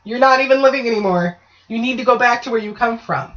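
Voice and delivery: even, patient, unhurried explaining; calm. Retold or imitated. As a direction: talk the ghost down calmly, like reasoning with a cousin. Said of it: "You, like, calmly go".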